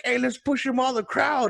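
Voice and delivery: imitated rallying crowd. Crowd eggs each other on.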